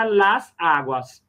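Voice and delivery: "las aguas" slowly, the S joining the two words; linking S. Shown as a demonstration. Teacher showing the plural, slow "las aguas" linked by S. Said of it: "não tem a repetição do som A".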